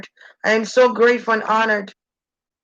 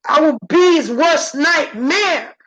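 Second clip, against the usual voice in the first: vengeful haunting threat; 5 semitones higher, 4 dB louder than usual. Acted.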